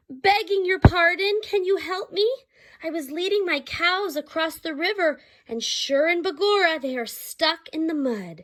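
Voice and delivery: high, panicked Irish plea; a frantic little leprechaun begging for help; frantic little man. Acted. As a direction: beg in a high frantic rush. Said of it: "Frantically, the little man asked".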